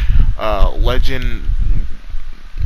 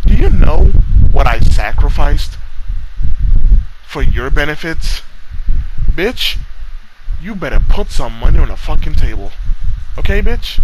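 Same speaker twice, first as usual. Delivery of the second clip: angry demand; 4 semitones higher than usual. Real, not acted. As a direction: make him pay up, yelling.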